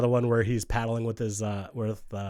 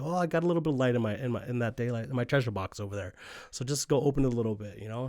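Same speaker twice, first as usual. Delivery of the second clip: Siegel hurrying; 2 semitones higher than usual. Retold or imitated. Siegel telling Raven to open the box, fast and flustered. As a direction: rush it, a bit anxious.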